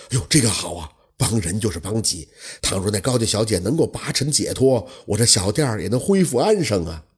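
innkeeper recounts the haunted house history; old innkeeper telling. Acted. Innkeeper voiced in story.

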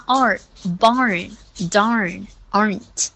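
"barn, darn, aren't" slowly with open ar; full ar vowel. Shown as a demonstration. Teacher corrects Ava's vowel, slow open ar. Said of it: "要发R".

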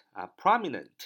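"prominent" slow, first syllable high and loud; stress on first syllable. Shown as a demonstration. Teacher modelling the word for learners, "prominent" stressed on its first syllable. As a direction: punch the "prom" in "prominent", let the rest fall. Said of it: "重音在啊这个最前面啊".

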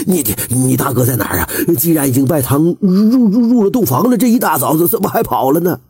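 sputtering, fast, mildly furious questions; furious stammer. Acted. Landlord grabbing the idler, sputtering fast and angry. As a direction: trip over the words in rage. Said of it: "财主怒不可遏地揪起何二问".

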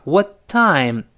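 a short stop between "What" and "time"; brief pause mid-phrase. Shown as a demonstration. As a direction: hold the t of "What", pause, then release "time". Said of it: "稍微停一下". (what后顶住稍停再读time)

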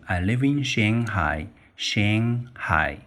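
Shanghai said with Chinese tones and a slow pace; Mandarin Shanghai. Shown as a demonstration. Teacher shows the second way people say Shanghai, slow and Mandarin-toned. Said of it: "另外一些人把它读成".

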